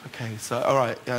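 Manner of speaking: low, very soft mock compliance; hushed, reluctant agreement; meek compliance. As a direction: give in quietly, imitating a resigned auditionee. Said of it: "you're going".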